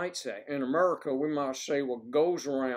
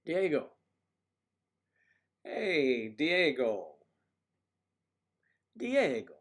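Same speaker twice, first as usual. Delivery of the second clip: calling out; 5 dB louder, slower than usual. Real, not acted. Calling out to a viewer.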